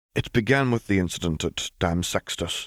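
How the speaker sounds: ordinary delivery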